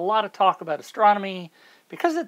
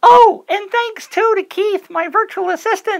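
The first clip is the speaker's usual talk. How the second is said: very high, loud, squealing, booming goofy voice; 14 semitones higher, 10 dB louder than usual. Speaker thanking this year's writers, slipping into a goofy voice. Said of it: "that goofy voice is coming out of me".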